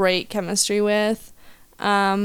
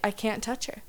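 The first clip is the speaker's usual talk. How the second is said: soft, breathless starstruck protest; flustered hush; 7 dB quieter than usual. Retold or imitated. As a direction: murmur it, too overwhelmed.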